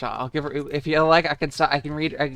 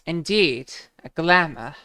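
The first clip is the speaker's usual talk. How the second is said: lightly voiced game characters, higher; 5 semitones higher than usual. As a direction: read the lines a bit higher. Voicing game dialogue.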